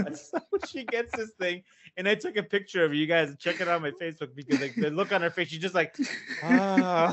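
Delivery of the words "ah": louder, drawn-out "ah" through laughter; mock blissful sigh. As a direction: act out her bliss, laughing. Imitates mother's blissful look.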